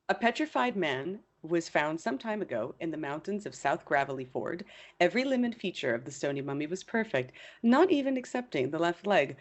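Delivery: put-on measured old newspaper report reading; reading aloud. Co-host reading an old hoax report to a colleague, narrating aloud. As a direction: read it out like a storyteller presenting evidence.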